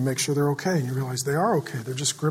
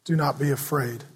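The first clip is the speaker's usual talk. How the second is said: gentle reassurance; 2 semitones lower, 3 dB quieter than usual. Shown as a demonstration. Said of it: "And he says".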